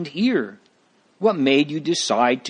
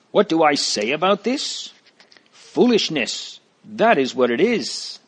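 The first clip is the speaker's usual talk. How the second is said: mildly raised, higher scoff at foolishness; crying out; 5 semitones higher than usual. Acted. Missus Timorous scoffing at Christiana's plan, mildly raised and higher. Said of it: "Missus Timorous cried out".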